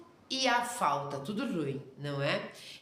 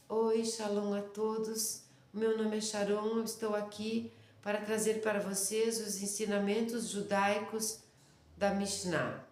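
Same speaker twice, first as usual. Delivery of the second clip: a touch softer, mock-polished teacher greeting; fake sweet presenter; 3 dB quieter than usual. Shown as a demonstration. Showing students a fake gentle teacher intro, lightly sugary. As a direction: put on a sugary, false welcome for the class. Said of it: "eu poderia fingir assim".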